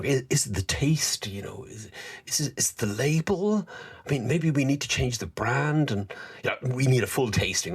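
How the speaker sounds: a hammed-up fretting manager; imitating the boss.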